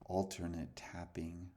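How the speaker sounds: whispered instruction; hushed guide whisper. Acted. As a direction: breathe the words out softly.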